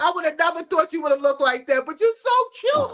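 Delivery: host gushing over a guest's looks. Real, not acted. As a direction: rave about how he looks. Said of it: "that's why I was like".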